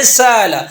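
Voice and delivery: سالہ with the hamza softened halfway to alif; slow, drawn-out سالہ, the glottal catch eased into a long a; bayn bayn qareeb. Shown as a demonstration. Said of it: "درمیان میں کر کے پڑھیں". (ہمزہ اور الف کے درمیان سالہ)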